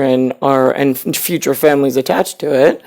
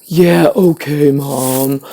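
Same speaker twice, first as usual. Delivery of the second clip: slow, flat yeah okay Mom that sinks at the end; mocking a teen's bored reply; drawn-out dismissive drone; 3 semitones lower, slower than usual. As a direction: drag it out like you couldn't care less. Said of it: "it's like".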